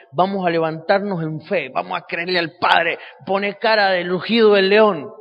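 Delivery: loud rallying cry building to a roar; rousing preacher call. Retold or imitated. Minister rallying the congregation, slowed loud roar at the end. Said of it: "me paro delante de ellos para decirle".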